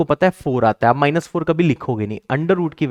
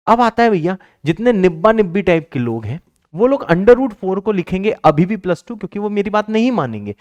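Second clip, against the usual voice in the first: shouting insistently; 6 semitones higher, 4 dB louder than usual. Real, not acted. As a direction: hammer home that it's wrong. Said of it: "मैं चिल्ला के बोल रहा हूं". (चिल्ला के ज़ोर से बोलना)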